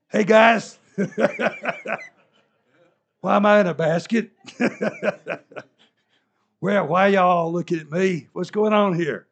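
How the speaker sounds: high, loud, bewildered; confused young man. Pretend. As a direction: play the risen boy for laughs. Comic voice of risen young man.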